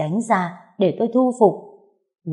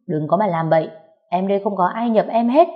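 shouting at sister-in-law; 2 semitones higher than usual. Acted. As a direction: yell to stop her. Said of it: "Tôi hét lên với chị Thắm".

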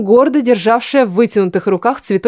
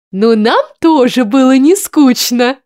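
put-on girl character voice; 4 semitones higher, 4 dB louder, slower than usual. A narrator's reading.

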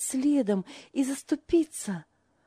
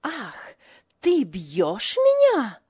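indignant; 2 semitones higher, 7 dB louder, much slower than usual. A narrator's reading. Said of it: "возмутилась она".

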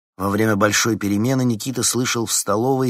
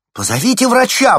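high, loud call for help; alarmed loud cry; urgent shout; 12 dB louder than usual. A narrator's reading. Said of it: "воскликнула Лариса".

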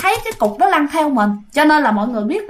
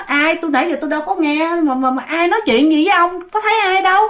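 baffled; 6 semitones higher than usual. Retold or imitated. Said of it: "ngớ người ra".

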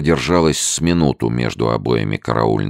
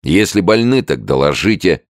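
fake kindly voice; 7 semitones higher, 5 dB louder than usual. A narrator's reading. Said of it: "деланно ласковым голосом".

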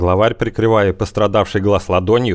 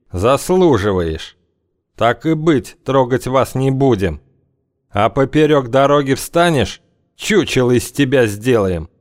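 menacing gang boss; 3 semitones higher than usual. Acted. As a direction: lay down terms calmly. Gang leader threatening.

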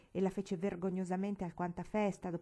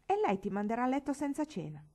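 loud warning; 6 semitones higher, 5 dB louder than usual. A narrator's reading. Boy warning.

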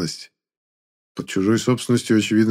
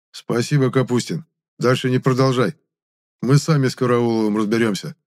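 caustic remark; 2 semitones higher than usual. Acted. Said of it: "и он едко сказал".

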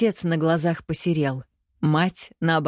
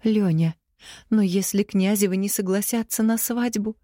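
a touch timid wife, higher; timid question; 5 semitones higher than usual. Acted. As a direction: ask hesitantly. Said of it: "робко спросила жена".

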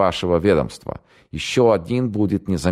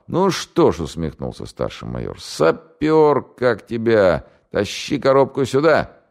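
mocking call; 7 semitones higher, slower than usual. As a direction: shout for the sapper, amused. Майор окликает сапёра. (насмешливый окрик)

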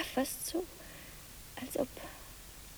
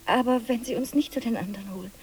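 anxious whisper. Acted. Ängstliche Frau flüstert drängend.

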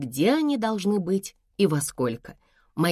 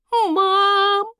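much higher, louder drawn-out moan; whining groan; 5 dB louder than usual.

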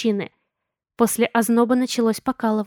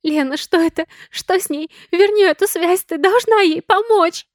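high, loud panicked plea; frantic pleading; 7 semitones higher, 4 dB louder than usual. A narrator's reading. Sonya begs Lena to save her mother, frantic. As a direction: beg her desperately to fix it.

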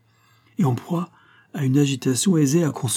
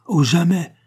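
loud, higher protest; cry out; 8 semitones higher, 6 dB louder than usual. Acted. Don José cries out to Banco in refusal. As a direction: cry out never. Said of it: "s'écria-t-il".

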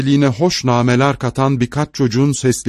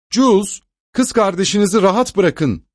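higher, calling across the park; 9 semitones higher than usual. A narrator's reading. Mother calling to her son in the park, a light shout. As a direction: call a scolding to a child far off. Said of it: "diye haykırdı kontes".

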